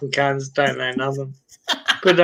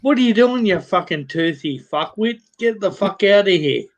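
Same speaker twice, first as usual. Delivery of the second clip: mock angry nun; 4 semitones higher than usual. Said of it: "pulls out the window and says".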